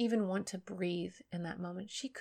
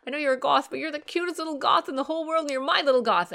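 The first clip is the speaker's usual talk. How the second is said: higher, louder cooing mum; doting baby talk; 7 semitones higher, 7 dB louder, faster than usual. Retold or imitated. Mother teasing her teen son with doting baby talk. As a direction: gush over him like a baby. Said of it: "and she said".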